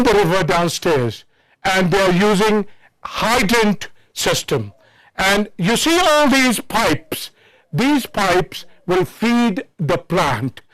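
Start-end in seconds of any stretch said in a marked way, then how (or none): 5.2-10.6 breathless after the climb; panting between words; out of breath. Real, not acted. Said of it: "I'm a little out of breath".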